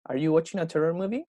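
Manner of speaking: "Are you watching a terror movie?" rising on the last word; rising question intonation. Shown as a demonstration. Teacher repeating the corrected question for the student, rising intonation. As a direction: end "movie?" on an upward slide. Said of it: "la entonación va como un poquito hacia arriba".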